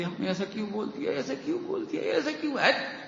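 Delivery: high, laughing mock of someone fretting over his words. Preacher mocks a listener fretting over words, laughing. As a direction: laugh while aping a worrier.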